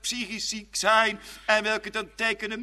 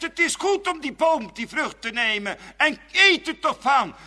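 higher, coaxing serpent voice; tempting serpent; 5 semitones higher, 3 dB louder than usual. Acted. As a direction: lure her to the fruit. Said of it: "En hij zegt".

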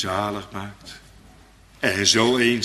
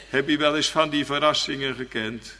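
normal talking voice

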